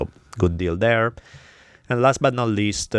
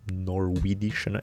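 unsure word; 7 dB quieter, much slower than usual. Real, not acted. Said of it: "Is that even an adjective".

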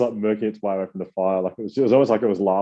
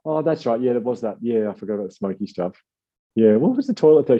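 much higher, airy and scattered, half-remembering; a friend piecing it together, pitched way up; imitating Missy; 6 semitones higher than usual. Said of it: "She goes".

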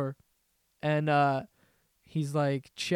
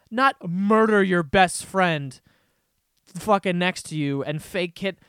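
indignant; 6 dB louder, slower than usual. Real, not acted. Ranting at the prank.

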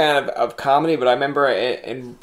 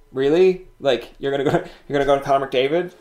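mocking disbelief. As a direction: turn their doubt back on them. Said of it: "And I'd be like".

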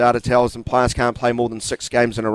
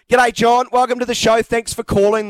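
higher, beaming host welcome; radio host greeting; 10 semitones higher than usual. Pretend. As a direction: greet the caller like a cheery host. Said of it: "the audience is saying".

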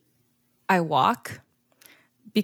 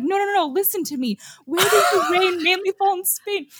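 insistent repeat; 10 semitones higher than usual. Retold or imitated. Retelling the Glee boys' study scene, a mock-impatient repeat. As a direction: push the question again like a teacher losing patience. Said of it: "And he's like".

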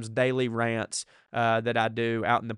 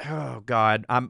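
ordinary talk, nothing marked

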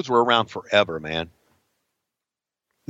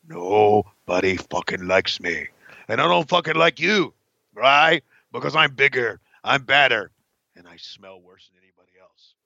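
Arn Anderson promo; 3 semitones lower than usual. Retold or imitated. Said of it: "Arn Anderson".

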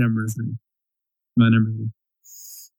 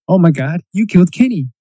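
retold cartoon catchphrase; 4 semitones higher, faster than usual. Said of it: "When they were like".

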